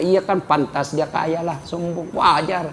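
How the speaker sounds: a quiet, knowing shrug of a remark; mock people's excuse. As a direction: say it like gossip making excuses. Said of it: "orang masih bilang".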